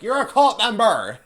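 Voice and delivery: high, loud mock outrage; mock accusing shout. Acted accusation in a recap.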